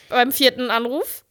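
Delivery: ordinary talk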